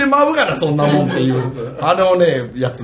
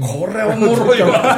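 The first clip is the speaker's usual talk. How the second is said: amused remark; 5 semitones higher, slower than usual. Retold or imitated. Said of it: "って".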